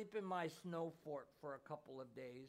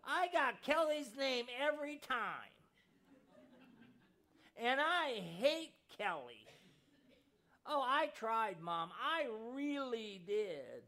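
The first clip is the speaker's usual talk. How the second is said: put-on higher, louder, tearful child's voice; choked-up boy; 4 semitones higher, 5 dB louder than usual. A narrator's reading. Boy sobbing his confession to his mother, higher and louder. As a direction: blurt it through tears like a heartbroken boy. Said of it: "the little boy choked".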